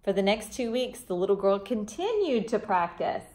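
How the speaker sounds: gentle storybook reading voice; children's storybook reader; story narration. A narrator's reading. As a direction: read it like a bedtime story to kids.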